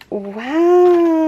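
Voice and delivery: loud, high, long wow; amazed. Real, not acted. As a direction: let out a big awed wow. Stunned on unwrapping the gift.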